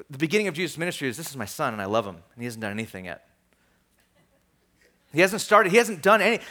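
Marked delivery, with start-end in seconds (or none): 1.2-3.3 low, soft and matter-of-fact; understated acceptance, said softly; quiet fatherly approval. Acted.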